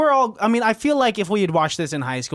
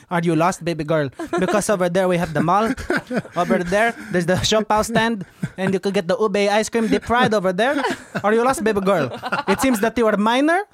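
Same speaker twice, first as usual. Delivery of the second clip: put-on helpful Filipino accent; 2 semitones higher than usual. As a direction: give directions like a Manila local. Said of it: "getting directions in Manila".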